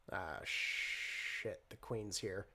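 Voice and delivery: low, quiet aside under the breath; hushed warning. Acted. Teenager warns companion that Missus Hilborn is near, hushed warning. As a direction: drop your voice to warn a companion. Warning as the feared host appears.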